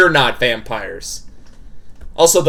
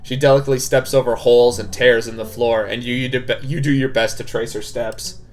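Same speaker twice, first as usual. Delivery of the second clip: measured, even visual novel narration; story narration; 3 semitones lower than usual. A narrator's reading. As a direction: read the scene out evenly. Reads the game narration.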